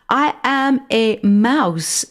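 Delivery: put-on slow, high, each word clearly in French accent; enunciated French accent. A narrator's reading. Mouse correcting the boy, slow French enunciation. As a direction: spell it out slowly, French accent. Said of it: "enunciating each word clearly, albeit with a French accent".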